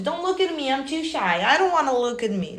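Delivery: high, bashful princess voice; timid royal child begging not to be seen; shy little princess. Acted. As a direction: hide your face like a shy little princess. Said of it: "little princess that is too shy".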